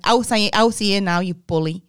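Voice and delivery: furious nan calling the teacher out; angry command. Retold or imitated. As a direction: call the bully out.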